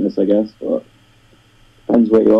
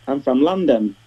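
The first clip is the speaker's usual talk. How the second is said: light Cockney accent on the quote; a quick, understated London Cockney twang; 3 semitones higher than usual. Shown as a demonstration. Northern Brit briefly showing an American how Londoners sound, a hint of Cockney. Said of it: "Southerner will talk a bit like that, a bit Cockney".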